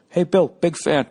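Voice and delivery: high-pitched imitation of a fan; mock fan greeting. Bystander recognizing the comedian, high fan greeting.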